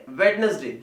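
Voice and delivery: वेडनेसडे sounding the first d; three parts in वेडनेसडे, "wed-nes-day"; common mispronunciation. Shown as a demonstration. Teacher imitating students' error, वेडनेसडे with every syllable. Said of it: "क्या बोलते हैं?".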